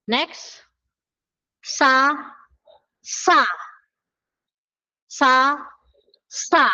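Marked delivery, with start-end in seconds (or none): 1.6-6.7 first sa plain, second sa tense and higher; two Korean s sounds. Shown as a demonstration. Teacher comparing the two s sounds, plain then tense. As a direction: contrast Sa and sa. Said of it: "Comparison nga ng tatlo".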